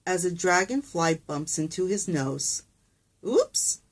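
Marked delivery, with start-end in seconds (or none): 3.2-3.8 sudden high squeak of surprise; a startled squeal, pitch way up; pig's surprised oops. A narrator's reading. Small pig yelps as a frog lands on him, startled high squeak. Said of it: "says the small pig".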